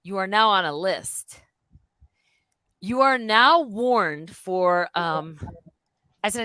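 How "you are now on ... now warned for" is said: slow, deliberate official warning; lightly voiced stern security guard. Guard warning her in the hotel room, slow and stern.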